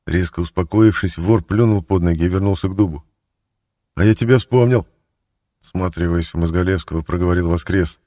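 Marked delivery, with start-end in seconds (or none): 4.0-4.9 higher, louder exclamation; light up with recognition; sudden recognition. A narrator's reading. Thief suddenly recognizing his cellmate, excited.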